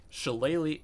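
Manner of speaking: Shillelagh said clearly as sheh-LAY-lee; saying Shillelagh. Shown as a demonstration. GM repeats Shillelagh for the curious player, carefully. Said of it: "Is that how you pronounce that word?".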